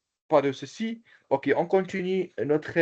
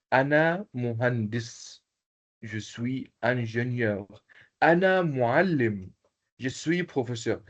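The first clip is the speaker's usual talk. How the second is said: slow teaching model. Shown as a demonstration. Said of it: "qui peut présenter comme moi".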